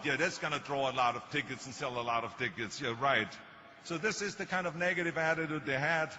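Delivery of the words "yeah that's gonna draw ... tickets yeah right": dry mock agreement, dropping lower at the end; sarcastic. Agent doubts the name on a billboard, sarcastic. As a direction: scoff at it as an agent would.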